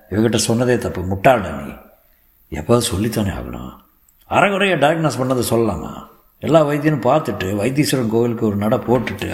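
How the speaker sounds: lightly voiced elder, animated rebuke; scolding elder uncle. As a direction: scold like an opinionated family elder. (லேசாக திட்டும் பெரியப்பா)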